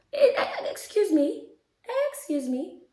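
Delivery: high, disbelieving laugh through words. Real, not acted. Incredulous laugh at the idea.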